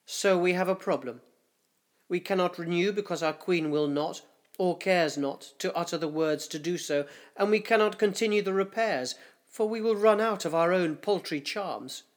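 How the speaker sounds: lightly voiced councillor, a touch urgent; grave councillor. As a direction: lay out the problem to the council. Councillor states the problem.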